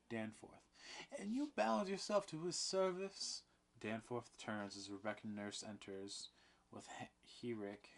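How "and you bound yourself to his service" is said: high, loud demand; much higher, louder; climactic question. A narrator's reading. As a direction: drive the question home.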